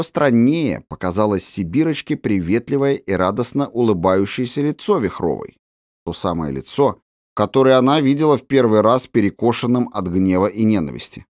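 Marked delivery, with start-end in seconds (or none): none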